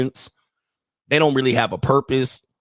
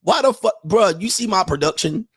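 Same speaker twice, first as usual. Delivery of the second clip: retold exasperated rant; 3 semitones higher than usual. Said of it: "I'm like".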